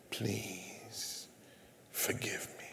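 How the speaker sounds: hushed, broken whisper of a plea. Retold or imitated. Caller whispering for forgiveness on the phone, broken. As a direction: barely voice the words, pleading. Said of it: "On the other end of the phone".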